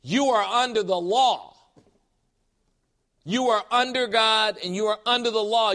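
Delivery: intense rebuttal. Shown as a demonstration. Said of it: "say it with that intensity".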